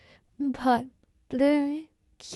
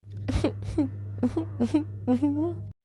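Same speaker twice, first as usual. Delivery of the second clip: sob; 4 semitones higher, 3 dB quieter than usual. Acted. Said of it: "रोना बंद करो।".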